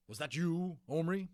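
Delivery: loud stern headmaster voice; stern teacher call. A narrator's reading. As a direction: call him out sharply. Teacher calling out in assembly.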